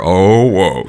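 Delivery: ordinary delivery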